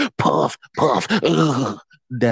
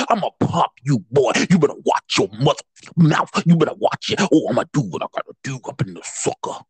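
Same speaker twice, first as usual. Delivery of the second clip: lightly acted gangster tough talk; mock gangster bravado; gangster threat; 2 semitones higher, faster than usual. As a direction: play a gangster issuing threats, quick patter. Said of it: "you didn't get gangster".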